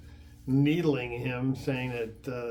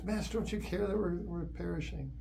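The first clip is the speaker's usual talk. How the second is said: rushed, higher, panicky pleading; frightened plea; 4 semitones higher, 5 dB quieter, faster than usual. Acted. Disciples waking Jesus in the storm, panicky higher plea. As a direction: cry out to him as the boat sinks.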